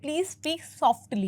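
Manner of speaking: very slow please speak softly; slow classroom example; slow demo. Shown as a demonstration. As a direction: draw out each word slowly. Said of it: "थोड़ा धीरे-धीरे बात करिए".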